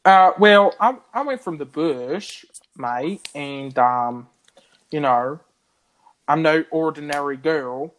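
put-on Australian bush accent. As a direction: ham up being from the bush, Australian style. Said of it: "I'm actually Australian".

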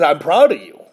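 overcome, voice giving way after a loud start; real emotion, fading to near whisper; choked up. Real, not acted. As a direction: push it out, then lose your voice. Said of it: "This one's gonna get me a little".

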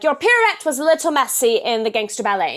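put-on British accent. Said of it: "and he's British".

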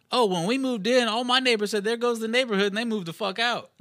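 high-pitched lady impression; imitated neighbor lady. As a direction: voice the lady, pitched well above your own. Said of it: "And the lady goes".

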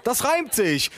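high, gleeful mock pride; delighted aside. Aunt delighted with the rhyme. (gespielt entzückt)

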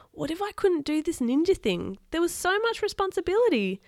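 put-on lively read-aloud voice for kids; story narration. A narrator's reading. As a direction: read the adventure to the children. Reads a children's story aloud.

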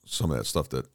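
mic dropping out between words; audio cutting out. Real, not acted. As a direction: voice breaking up on a bad mic. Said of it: "You keep cutting out".

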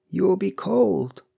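high, slow, tender concern. A narrator's reading. Husband coaxing his wife back to bed, tender. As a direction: coax gently, drawing the words out. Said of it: "he said tenderly".

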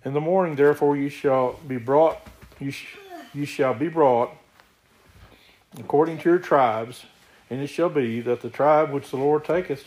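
steady, emphatic Bible reading; scripture reading. Acted. Preacher reads Joshua's story to the congregation, scripture reading. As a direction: read the verses out firmly to the congregation.

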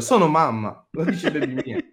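laughing imitation. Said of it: "questo è ancora peggio di Ciccio Bello".

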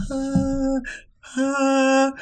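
mimed gulps of air between notes; gasping for breath. Retold or imitated. Singer in an ensemble running out of breath, gasping. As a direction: imitate snatching breaths mid-song. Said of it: "I frequently have to be like".

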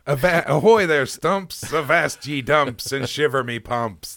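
high, loud hammed-up pirate. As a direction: belt it out like a swaggering pirate. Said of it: "This is called Talk Like a Pirate".

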